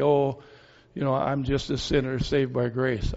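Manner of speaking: mock-humble, trailing down a little; false humility. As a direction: gently imitate someone being falsely modest. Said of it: "we put on this false humility".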